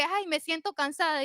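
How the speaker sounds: soft, weary little complaint; quietly mock your own tiredness; tired complaint. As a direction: mimic yourself feeling worn out. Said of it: "yo empiezo como que".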